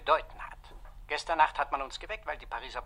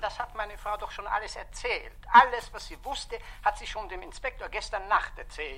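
gereizt; 5 semitones higher than usual. Acted. Gereizter Ehemann am Telefon mit Kommissar.

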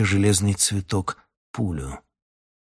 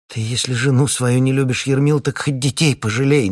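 louder, said so the captain hears; deliberately loud; 5 semitones higher, 4 dB louder than usual. Acted. Wife speaks loudly to husband so captain hears. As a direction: raise it for the captain's ears. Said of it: "нарочно громко, чтоб Шутов услышал".

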